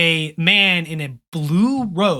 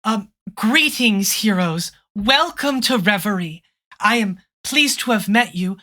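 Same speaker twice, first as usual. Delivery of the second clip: gentle princess; 4 semitones higher than usual. Acted. GM voices the princess.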